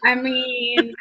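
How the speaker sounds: talking while eating; mouth full. Real, not acted. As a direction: talk through a bite of food. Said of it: "Rachel, watching you eat?".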